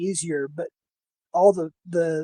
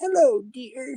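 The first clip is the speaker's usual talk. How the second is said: put-on higher-pitched elderly woman's voice; 6 semitones higher than usual. Recalling which voices they did for a role, trying the old lady voice. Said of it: "I think I did the old man, the old lady".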